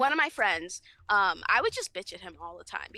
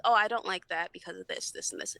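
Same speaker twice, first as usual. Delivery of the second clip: lower, gently reasonable explanation; nice, gentle manner; 5 semitones lower than usual. Acted. Explaining her feelings to someone, nice and gentle. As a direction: explain it nicely and mildly. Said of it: "explaining my feelings ... a nice, gentle manner".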